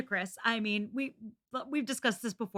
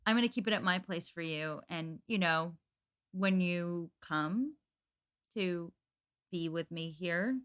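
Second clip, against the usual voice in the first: suggestive guy; 3 semitones lower than usual. Acted. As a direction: draw it out with loaded pauses. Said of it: "a guy buying you something and saying".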